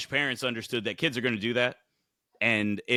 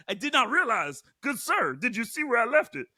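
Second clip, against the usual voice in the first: high, polite mock-formal inquiry; mock posh gentleman; 11 semitones higher than usual. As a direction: play a prim gentleman who lost something.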